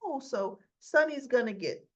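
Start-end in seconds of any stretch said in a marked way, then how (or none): 0.0-0.2 sharp, much higher cry of his name; imitated desperate scream of no; pleading cry. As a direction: stop him mid-shot with a cry. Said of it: "you hear Carly's voice saying".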